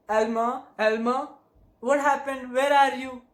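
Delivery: acted frantic wife calling out; high, loud, alarmed cry for a husband; yelling. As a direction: call out in panic, high and rising. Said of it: "started yelling".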